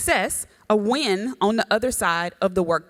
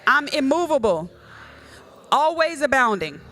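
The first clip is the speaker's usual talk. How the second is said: declaration; 3 semitones higher than usual. Shown as a demonstration. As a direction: proclaim it so they echo it. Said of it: "Say it".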